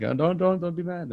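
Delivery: high, playful retold plea; mock pleading.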